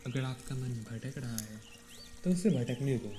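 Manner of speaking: calm meditation guide, long pauses between phrases; guided meditation. Real, not acted. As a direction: ease them into stillness, leaving space after each instruction. (शांत ध्यान निर्देश, ठहर-ठहर कर)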